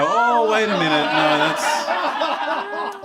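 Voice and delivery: loud, high outburst of second thoughts; alarmed protest. Acted. Acted alarm at toaster with knife.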